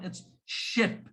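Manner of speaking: "ship" whispered with a short i; whispered demo. Shown as a demonstration. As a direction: breathe out "ship". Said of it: "I, I sound".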